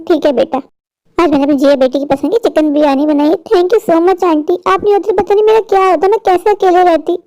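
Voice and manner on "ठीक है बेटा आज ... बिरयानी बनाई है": lower, gently coaxing aunt. Acted. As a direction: talk her into eating like a kind aunt. Aunt offering dinner.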